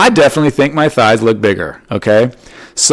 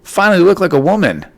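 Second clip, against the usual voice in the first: much higher, hammed-up faux sweet voice; mock husband insulting wife; 8 semitones higher than usual. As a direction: play it as a fake-innocent jab. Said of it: "Imagine if I said that to my wife".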